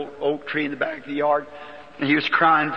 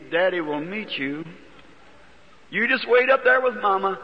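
tender farewell; 4 semitones higher than usual. Retold or imitated. Farewell to dying daughter.

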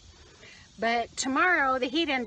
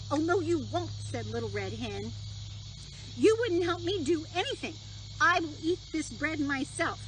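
indignant hen; 4 semitones higher than usual. Acted. Hen refuses to share.

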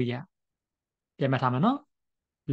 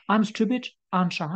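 slow example; 5 semitones higher, much slower than usual. Shown as a demonstration. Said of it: "question tags တွေရှိ".

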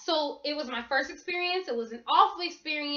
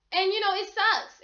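real upset breaking through; tearful; 4 semitones higher than usual. Real, not acted. Telling viewers about her stolen phone, near tears. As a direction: voice catching into a cry.

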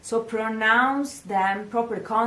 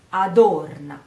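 Adorna with a louder, stressed O; 2 semitones lower, 5 dB louder than usual. Shown as a demonstration. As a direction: hit the O of Adorna. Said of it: "The stress of the sentence is on the O".

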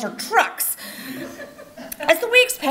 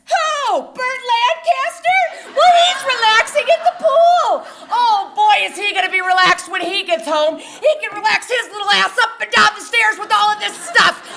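much higher, louder furious tirade; screaming mom; 9 semitones higher, 4 dB louder than usual. Retold or imitated. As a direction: shriek it without a breath. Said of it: "my mother screamed".

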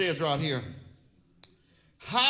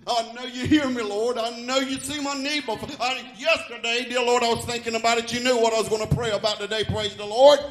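raised, earnest demonstration of praying; personal prayer; 4 semitones higher, 5 dB louder than usual. Shown as a demonstration. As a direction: pour it out to God, pitched up. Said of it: "Do you ever pray like that".

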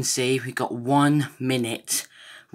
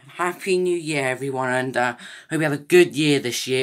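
excited; 3 semitones higher, 5 dB louder than usual. Real, not acted. Right after midnight cheer.

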